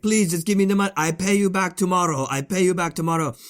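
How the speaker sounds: high-pitched imitation of desperate begging; mock yelled plea. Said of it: "He's just screaming, yelling".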